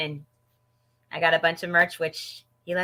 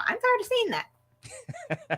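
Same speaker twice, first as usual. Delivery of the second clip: laughing; 4 dB quieter, much slower than usual. Real, not acted. Laughing through frustration.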